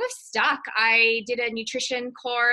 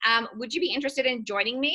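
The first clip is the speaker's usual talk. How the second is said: upline's friendly pitch. Retold or imitated. Upline reaching out to recruit her friend, retold pitch. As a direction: imitate a friend's eager opener, settling into casual chat. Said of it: "she was like".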